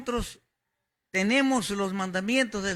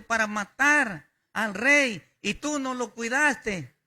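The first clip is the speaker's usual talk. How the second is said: calling out; 4 semitones higher, 3 dB louder than usual. Retold or imitated. David calls out to Abner.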